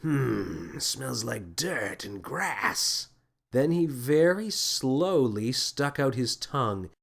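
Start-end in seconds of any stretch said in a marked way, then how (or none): 0.0-3.1 musing captain. A narrator's reading. Captain sniffing ball.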